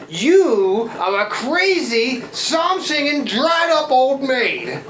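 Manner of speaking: put-on slow, slurred drunken tirade with high peaks; drunken insult. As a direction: spit out each insult slowly. Drunk man insults the lady.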